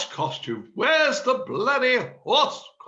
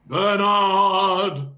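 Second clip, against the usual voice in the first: sharp loud call of a name; 5 dB louder than usual. Acted. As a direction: shout for him across the room. Gordon yelling for Bernard.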